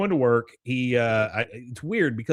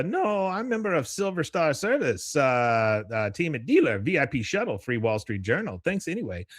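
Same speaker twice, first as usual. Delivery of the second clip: higher-pitched boastful character voice; self-important customer; 4 semitones higher than usual. Retold or imitated. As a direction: list perks to show off, pitched up. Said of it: "Don says".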